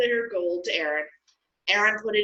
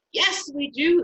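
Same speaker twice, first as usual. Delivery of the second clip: much higher and louder, eager shout; 8 semitones higher, 4 dB louder than usual. Acted. The people answering Moses all together, shouting. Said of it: "the people all shouted".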